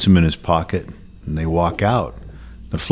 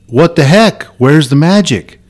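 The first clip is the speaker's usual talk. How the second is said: higher, indignant confusion; baffled clerk; 7 semitones higher than usual. Acted. Store clerk confused by the magic trick, higher baffled voice. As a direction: demand where the trick went.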